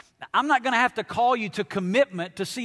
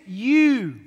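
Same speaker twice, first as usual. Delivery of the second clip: plain Southern you; 2 semitones higher, 7 dB louder than usual. Shown as a demonstration. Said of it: "You" singular is".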